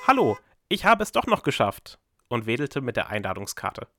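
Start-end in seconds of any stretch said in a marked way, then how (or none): 0.1-2.0 high, loud call from the street. Acted. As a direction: call across to the house. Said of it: "rief sie". (laut rufend zur Begrüßung)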